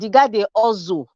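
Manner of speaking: Nigerian Benin accent, hustle said as "ozo". Shown as a demonstration. Panelist mocking a politician for the panel, in Benin accent. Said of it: "let me speak in Benin accent".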